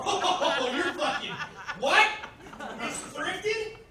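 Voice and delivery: loud, high-pitched comic outrage; shocked disbelief. Acted. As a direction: repeat it as an appalled question. Shocked reaction to her answer.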